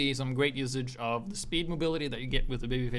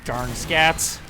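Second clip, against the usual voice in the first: put-on Texas accent; 4 semitones higher, 7 dB louder than usual. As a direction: ham up a mild Texan accent. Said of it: "My Texas accent".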